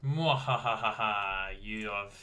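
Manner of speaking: slow evil laugh, then a loud doomed; mad scientist. Acted. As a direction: cackle like a gleeful villain. Villain gloat at enemy.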